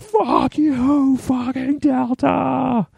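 high, very slow drawn-out curse; furious yell. Retold or imitated. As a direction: drag each word out high in disbelief. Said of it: "And so I'm like".

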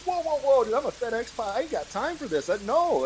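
high, rushed "whoa whoa whoa" like a man caught off guard; panicked refusal. Retold or imitated. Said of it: "I'm panicking here".

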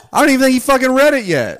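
high, loud laughing talk. Real, not acted. To her friend about Connor and the book, laughing. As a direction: cackle through the words.

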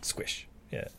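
high, slow gleeful villain. Acted. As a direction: savour each kill them.

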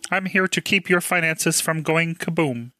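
lightly voiced cartoon alien; a hint of the alien overlord; alien assistant voice. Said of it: "I getcha".

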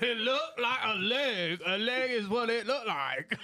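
high laughing, words breaking up. Real, not acted. Laughing fit.

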